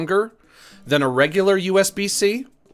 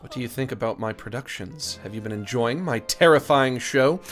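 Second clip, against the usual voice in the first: put-on mid-Atlantic accent; 3 semitones lower than usual. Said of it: "She would definitely have a mid-Atlantic accent".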